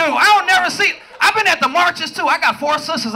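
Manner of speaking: normal talking voice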